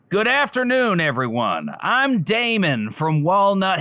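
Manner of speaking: lightly put-on presenter voice, high greeting then drop; a hint of a slick twin presenting; alternate persona voice. The speaker tries his twin's voice at the conference. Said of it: "let's see if I can try this other person on for size".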